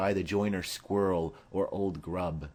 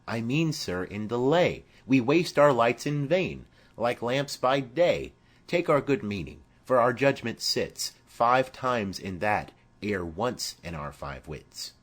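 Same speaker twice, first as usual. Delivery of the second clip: Mercutio insisting, higher and louder; animated Mercutio; 3 semitones higher, 4 dB louder than usual. Acted. Mercutio corrects Romeo, animated and higher. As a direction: press the point with energy.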